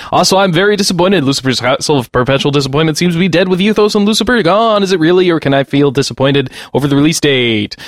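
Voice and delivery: lightly voiced radio DJ; annoying DJ voice. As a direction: read it like a cheesy DJ. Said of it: "I can do this in my annoying D J voice".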